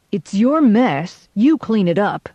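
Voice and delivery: irritated deputy snapping; snapped. Acted. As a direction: bite off each word, annoyed. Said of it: "snapped the deputy".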